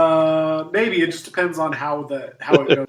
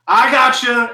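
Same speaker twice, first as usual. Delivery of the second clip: reassuring shout; 8 semitones higher, 7 dB louder, slower than usual. Acted.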